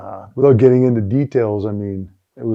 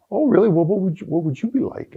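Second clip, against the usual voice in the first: mock challenge; 8 semitones higher than usual. Mocking coach's challenge.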